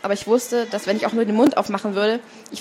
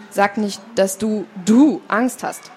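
teasing; 4 dB louder, slower than usual. A narrator's reading. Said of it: "zog er sie auf".

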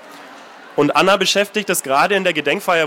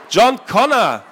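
higher and louder, triumphant; excited exclamation; 6 semitones higher, 4 dB louder, slower than usual. Acted. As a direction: proclaim the hero's name with awe. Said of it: "vor Begeisterung".

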